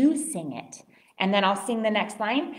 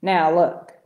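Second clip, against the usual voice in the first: low, loud grumble; grumpy walrus; 5 semitones lower, 7 dB louder than usual. A narrator's reading. Walrus brushes off little bird, grumpily. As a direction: cut the little one off crossly. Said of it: "grumped Missus Walrus".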